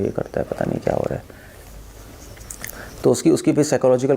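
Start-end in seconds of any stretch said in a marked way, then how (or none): 0.0-1.2 rushed, whispered end of the wife's complaint; wife's complaint to the doctor, whispered and rushed; fast whisper. Retold or imitated. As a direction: hurry it out under your breath. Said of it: "कह रहे थे".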